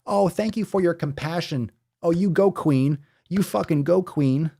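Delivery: high, gushing mock-supportive voice; mocking high sugary voice. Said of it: "having these morons try to justify".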